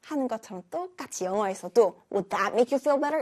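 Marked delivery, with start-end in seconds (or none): 2.1-3.2 mock irritated. Shown as a demonstration. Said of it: "이렇게 화나게 하면은".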